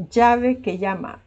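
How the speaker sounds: llave que llama, slow, ll like y; yeísmo example. Shown as a demonstration. Teacher slowly demonstrating yeísmo to students. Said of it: "aquí decimos igual".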